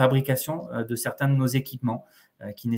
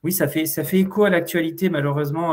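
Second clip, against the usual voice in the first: muffled through a face mask; 2 semitones higher than usual. Real, not acted. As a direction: speak with a mask over the nose. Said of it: "j'ai le masque sur le nez".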